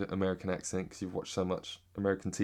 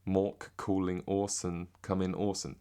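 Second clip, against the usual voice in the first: slow British pronunciation of the catchphrase; British accent; slower than usual. Shown as a demonstration. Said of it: "that's me in a British accent".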